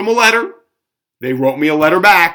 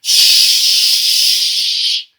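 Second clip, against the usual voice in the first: spray hiss. Shown as a demonstration. Mimicking the spray can hiss.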